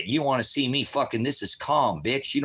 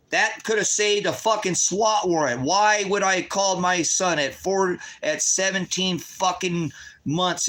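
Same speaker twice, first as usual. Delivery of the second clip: raised, higher and slow with rage; real exasperated fury; furious outburst; 6 semitones higher, slower than usual. Real, not acted. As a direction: let the fury boil over, dragging each word out. Furious rant about swat warrant.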